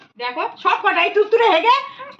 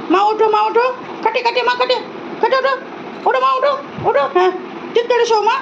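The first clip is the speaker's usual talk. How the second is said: high sing-song coaxing of a pet bird; high pet talk; 4 semitones higher than usual. Real, not acted. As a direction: coo at the bird like a fond mother.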